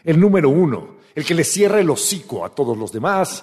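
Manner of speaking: anunciar al invitado alargando su nombre al final; presentación solemne que culmina en el nombre; presentador de espectáculo. Acted. (anunciador que presenta a una estrella)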